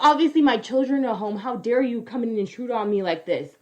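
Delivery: mocking a family scolding police at their door; mock indignation. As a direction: act wounded and self-righteous. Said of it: "they're like".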